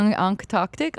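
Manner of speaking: slow, halting "Antarctic" as German-like "onk-uh-tock-tick"; German-sounding accent. Retold or imitated. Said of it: "like, in a German accent".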